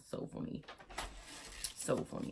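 airy, breathy aside; almost silent giggle; voiceless amused aside; breathless. Real, not acted. Still laughing at the ad.

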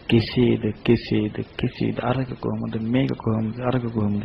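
very soft, low murmur; doubting inner questions. Acted. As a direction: voice nagging doubts under the breath.

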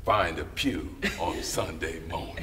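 slow, a touch of a churchy grandmother; mildly voiced old grandmother urging, half laughing; grandmother's advice. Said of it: "my grandmother said".

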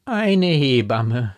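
slow, loud outrage; indignant cry. A narrator's reading. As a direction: draw the words out in indignation. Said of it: "rief Frau von G. mit Entwürdigung".

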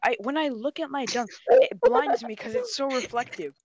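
high, whiny exasperation; genuinely annoyed. Acted. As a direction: complain as if truly fed up. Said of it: "You sound genuinely annoyed".

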